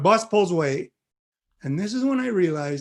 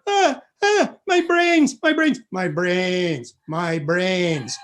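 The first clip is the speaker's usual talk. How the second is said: mock pain moan; much slower than usual. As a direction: wail about brain freeze, slowing right down. Brother's ice cream headache.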